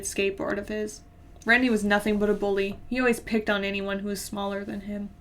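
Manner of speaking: even, measured story reading; plain-spoken first-person narration. A narrator's reading. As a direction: read the story aloud evenly. Reads a story aloud.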